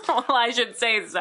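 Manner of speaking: lightly voiced proper mom; a touch of prim mom; momish voice. Shown as a demonstration. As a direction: say it like a mildly indignant mother. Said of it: "I get a little momish".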